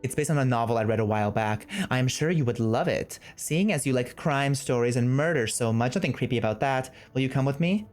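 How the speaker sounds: even, measured letter-reading voice; reading a note aloud. Acted. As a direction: read the invitation out plainly and evenly.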